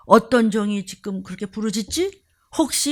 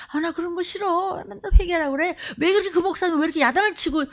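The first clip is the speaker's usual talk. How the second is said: lightly voiced whiny member, higher, quick at the end; mock the complaining believer; a hint of petulant grumbling; mocking churchgoer; 5 semitones higher, faster than usual. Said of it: "교회는 수십 년 다녔는데".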